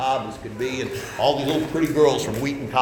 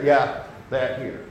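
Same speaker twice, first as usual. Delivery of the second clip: slow, insistent confirmation at usual pitch; firm answer; slower than usual. Acted. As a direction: overrule the protest steadily. Answer at judgment to the protest.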